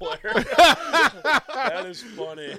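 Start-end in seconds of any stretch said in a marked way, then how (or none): 0.3-2.5 laughing. Real, not acted. Booster daughter escort joke.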